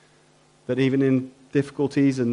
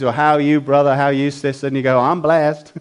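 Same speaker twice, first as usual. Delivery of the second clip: lightly put-on American accent, louder; 3 dB louder, faster than usual. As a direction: greet them in a mock American churchy accent. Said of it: "I came out with an American accent".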